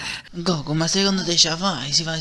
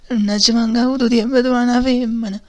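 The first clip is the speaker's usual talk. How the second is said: angry outburst; 6 semitones higher, 6 dB louder than usual. Acted. Angry outburst at old man.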